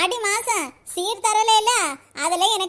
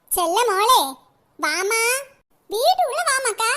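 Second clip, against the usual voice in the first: sweet calling out. Acted. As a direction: coax her in with a sugary call. Mother calls daughter in sweetly. (மகளை உள்ளே அழைக்கும் போலி பாசக் குரல்)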